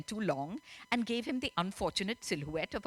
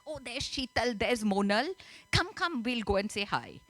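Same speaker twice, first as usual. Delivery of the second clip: excited mum; 3 semitones higher than usual. Acted. Mum pulls daughter over to greet her cousins, excitedly. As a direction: act a mum delighted to spot relatives.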